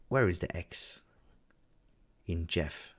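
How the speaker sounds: half-whispered night-time musing; quiet, wondering aside to himself; hushed puzzled thought. Retold or imitated. Streamer voices his sleepless question about the X, hushed.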